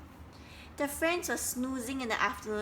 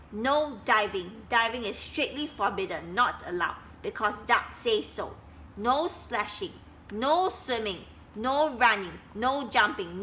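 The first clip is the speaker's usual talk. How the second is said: bossy signs; 3 dB louder than usual. Acted. Reading all Duck's signs.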